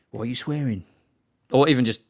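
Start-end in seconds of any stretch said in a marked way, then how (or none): 0.1-0.8 a fuller, softer imitation of a menacing gangster; mock gangster menace, more in character; Ben Kingsley as Don Logan. Quoting Sexy Beast to friends as the menacing gangster. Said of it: "from, uh, Ben Kingsley".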